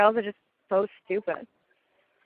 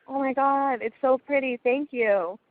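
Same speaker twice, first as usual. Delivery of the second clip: light, higher-pitched imitation of casual delight; not taking it seriously; 5 semitones higher, slower than usual. Sister admiring the ring, not taking it seriously. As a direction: gush lightly, missing the proposal. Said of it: "didn't even take it seriously".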